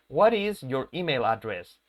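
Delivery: "What is" in full, unlinked; slow teaching demo with "is" uncontracted; words pronounced separately. Shown as a demonstration. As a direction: separate "What" from "is", taking it slowly. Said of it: "las pronunciemos por separado".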